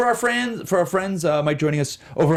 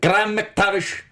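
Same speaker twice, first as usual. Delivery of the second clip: Scottish accent; 2 semitones higher, slower than usual. Shown as a demonstration. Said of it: "Keep doing it five times fast".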